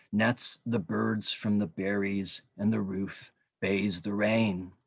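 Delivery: measured poem recital with pauses; unhurried, weighted poem delivery; poetry reading. Acted. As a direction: read verse line by line, deliberately. Begins reading third poem.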